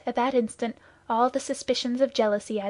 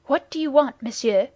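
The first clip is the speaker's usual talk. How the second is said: loud, higher, startled demand; sharp demand; 3 semitones higher, 6 dB louder than usual. A narrator's reading. Musketeer startled by a stranger, demanding loudly. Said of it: "demanded the Musketeer, recoiling a step".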